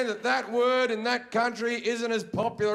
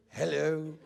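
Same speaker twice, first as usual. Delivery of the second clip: softer, lower answering hello; reply with a muted, dutiful hello; polite greeting; 4 semitones lower, 5 dB quieter than usual. Retold or imitated.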